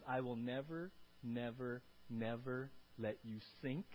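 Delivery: low, slow, steady "never"; low-pitched, measured reassurance; reassuring promise. Acted. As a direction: promise it slowly and firmly. Voices God's steady promise.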